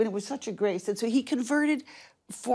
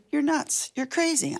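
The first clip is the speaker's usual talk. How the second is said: higher-pitched retold disbelief; incredulous retort; 7 semitones higher than usual. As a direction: re-enact telling husband off in disbelief. Retells objecting to husband's wild offer.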